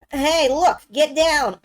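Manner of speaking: high, loud alarm call; acted urgent shout; shouted warning. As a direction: yell a warning to take cover. Acted warning cry in comic.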